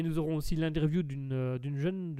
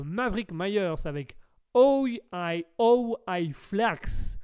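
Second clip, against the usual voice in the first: English accent; 3 semitones higher, much slower than usual. Shown as a demonstration. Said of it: "un accent anglais plus ou moins potable".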